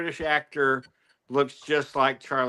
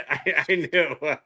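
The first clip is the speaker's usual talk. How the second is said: laughing; slower than usual. Real, not acted. Laughing at a joke.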